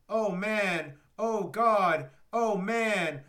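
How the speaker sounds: builds from pained groans to loud cries; escalating anguish. Retold or imitated. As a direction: ramp up the despair each time. Reading the intense scene dialogue.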